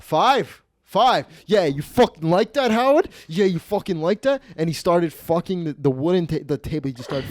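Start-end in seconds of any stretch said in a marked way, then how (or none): 0.0-1.3 high, loud celebratory call; mock gambler's excitement. Gambler hitting the number he needed, excited imitation. 1.5-4.4 high, crowing imitation; mock rowdy taunting. Gambler gloating to Howard, rowdy imitation.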